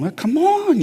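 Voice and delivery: high-pitched mock challenge; with an attitude. Imagined walk into the rival clinic, mock attitude. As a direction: act out a cocky challenge, pitch jumping up. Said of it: "with an attitude going".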